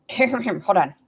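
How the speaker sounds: breaking into a laugh. Shown as a demonstration. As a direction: chuckle through the words. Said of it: "I gotta get into the scene".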